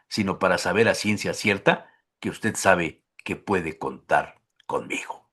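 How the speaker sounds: low, soft, measured love poem; poem recitation. Acted. Host reads Benedetti's poem to guest, tender recitation. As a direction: recite tenderly, pausing between verses, hushed ending.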